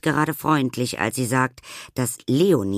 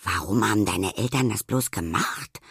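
sympathetic. Acted. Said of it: "das klingt schon wieder viel mitfühlender".

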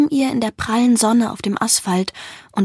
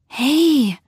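gentle voice; 3 semitones higher than usual. A narrator's reading. Someone beside the dreamer, gently waking them. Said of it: "ertönt eine sanfte Stimme".

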